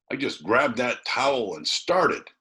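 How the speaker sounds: lightly voiced boy. A narrator's reading. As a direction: tell it like a proud escape. Tom voiced high.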